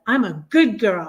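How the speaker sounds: lightly imitated English accent; hint of Audrey Hepburn's English accent; English accent attempt. Reader quoting Audrey Hepburn from My Fair Lady, attempted English accent. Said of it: "As Audrey Hepburn said, ... with an English accent".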